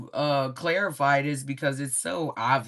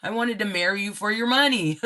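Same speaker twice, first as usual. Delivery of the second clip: higher-pitched, hammed-up dismay; mock lament; 4 semitones higher than usual. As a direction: imitate a jilted gold-digger wailing, half in jest. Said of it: "they're crying over you".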